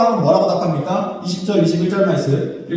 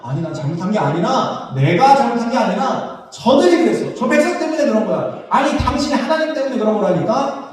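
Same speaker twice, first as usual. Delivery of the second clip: mock protest, rising in pitch; defensive excuses; 3 semitones higher than usual. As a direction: shift the blame, increasingly insistent. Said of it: "사울 왕의 합리화의 모습". (남 탓하며 변명하는 말투)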